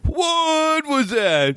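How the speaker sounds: high, slow, laugh-filled question. Real, not acted. Reacting to a friend's act while cracking up.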